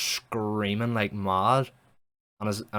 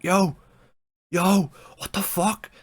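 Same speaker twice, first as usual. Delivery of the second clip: high, loud panicked yells; acted-out cry for help from someone trapped; freaking out; 11 semitones higher, 8 dB louder, slower than usual. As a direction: yell out in mock panic, pitch jumping up. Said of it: "he starts freaking out".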